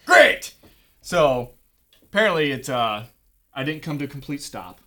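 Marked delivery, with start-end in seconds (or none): 0.1-0.5 high, loud mock delight; mock enthusiasm. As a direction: burst out with fake cheer. Mock reaction to being pulled over.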